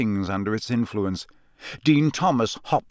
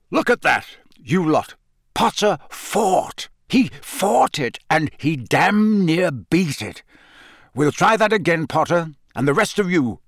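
put-on proud old auror, barking it out; gruff excited Moody; 3 semitones higher than usual. A narrator's reading. Moody praising, voiced high.

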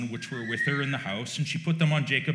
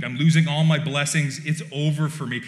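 louder, half-hammed fear of losing everything; mock panic; 2 semitones higher, 6 dB louder than usual. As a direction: keep up Jacob's loud despair, then let it sink. Jacob panicking before blind father.

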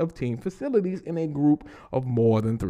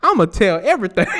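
high, louder vengeful chef; mock angry chef; 5 semitones higher, 6 dB louder than usual. Host voicing the angry chef snitching, louder and higher. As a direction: spit it out like a fed-up chef. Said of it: "that motherfucker was like".

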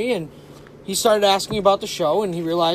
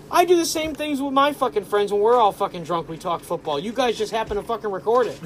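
put-on South Boston accent; 3 semitones higher than usual. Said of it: "in a very thick South Boston accent".

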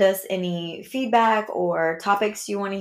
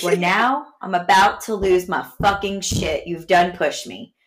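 a louder, exasperated mom warning her son; retold mock anger; 6 dB louder than usual. Mom warning her son she's about to lose it, louder. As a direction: mom snapping at her son, loud and fed up. Mom retells losing temper.

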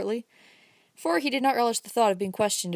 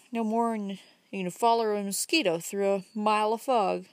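a lightly voiced old country man, rising as he goes; folksy old fellow building up his point, slowing at the end; old Uncle Bobby; 2 semitones higher than usual. Old man lecturing the young man about smoking, lightly voiced and folksy. Old man's long speech.

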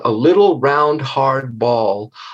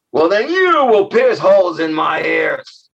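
demanding monster; 3 semitones higher than usual. Acted. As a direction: bark the order like a giantess. Monster commands the girl.

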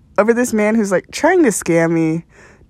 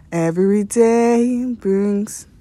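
mock poetry reading; much slower than usual. Continues the mock poem.

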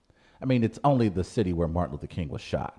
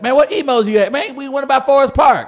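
much higher, louder, hammed-up local accent; St. Louis slang voice; 11 dB louder than usual. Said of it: "we don't".

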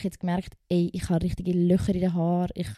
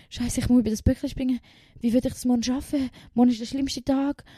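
retold panic; 5 semitones higher, 3 dB louder than usual. Retelling panic before the test.

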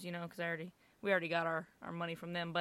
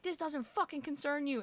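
retold rebuke; 6 semitones higher, 5 dB quieter than usual. Dad rebukes the store owner.

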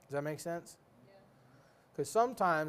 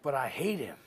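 whispered complaint; 2 semitones lower, much slower than usual. Retold or imitated. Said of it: "I'm like".

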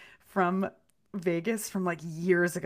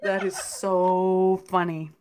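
laughing; 3 dB louder, slower than usual. Real, not acted. Friend winding down after the funny story, laughing. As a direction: say it while getting over a laughing fit.

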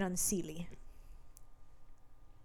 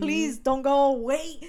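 mild mock plea, slightly raised; begging; 4 semitones higher than usual. Dying man pleads with the woman leaving him, retold begging. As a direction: imitate a man begging her to stay. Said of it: "begging her".

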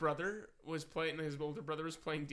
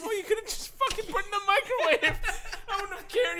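mock scolding; 7 dB louder than usual. Dad scolding the son.

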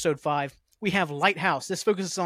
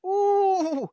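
mock realization; 3 dB louder than usual.

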